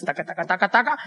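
quick "taca-taca" keyboard noise; imitated typing noise. Imitates typing while searching online.

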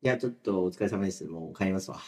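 mock leaving. Boke skit, pretending to leave.

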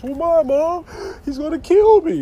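mock whiny teen, high and loud; panicky son. Dad mimicking his scared son pleading with mom, high and whiny.

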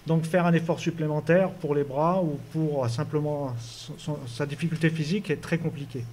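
muffled behind a face mask; speaking through a mask. Real, not acted. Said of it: "avec le masque, c'est pas très évident".

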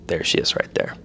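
unvoiced-sounding stage whisper; hushed discovery. Teller spots the woman in the Walmart aisle, hushed whisper. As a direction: whisper it as if pointing her out.

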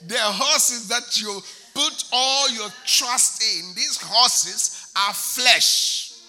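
loud, slow, hammered sermon lines; slow loud chanted preaching; full-force preaching. Acted. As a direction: drive each phrase home to the congregation.

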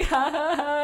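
high-pitched imitation of his laugh; mock awkward laugh. Imitating her friend's nervous reaction to her crying, mock laugh. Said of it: "he just starts laughing".

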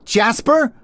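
high-pitched questioning call; distant shout. A narrator's reading. Harriet calling down from atop the lighthouse, high distant shout. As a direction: call out a name from far away. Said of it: "she was shouting from atop the lighthouse".

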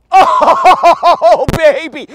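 big celebratory cheer; gleeful whoop. Real, not acted. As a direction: crow with delight, high and loud. Gleeful reaction to his own throw.

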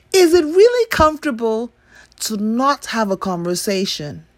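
skeptical question. Acted. Repeated question, pressing.

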